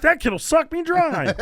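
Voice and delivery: high, loud, drawn-out comic wail; mock alarmed teacher. Teacher fears the blood-sucking pupil, hammed-up alarm. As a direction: stretch it out with laughter behind it. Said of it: "he's like".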